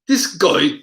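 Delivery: put-on tentative northern English accent. Streamer quoting a video maker, attempted northern English accent. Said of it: "how do you do the northern accent".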